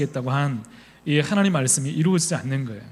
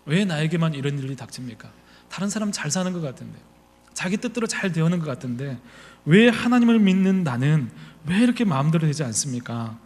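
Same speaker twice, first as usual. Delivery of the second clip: heavier lament. Retold or imitated. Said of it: "좀 더 무겁게 나가면".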